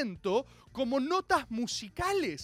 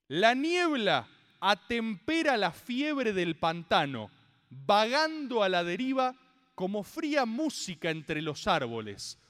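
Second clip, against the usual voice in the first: slow, solemn recitation with long pauses; dramatic comic reading; 2 semitones lower than usual. Acted. Reading the comic's opening aloud, slow dramatic recitation. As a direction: savour each phrase like poetry. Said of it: "así arranca un cómic".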